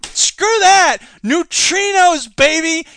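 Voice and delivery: loud, high, gleeful outburst; hyped-up shout. Real, not acted. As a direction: sell it like a huge reveal. Hyped rant about neutrino trading.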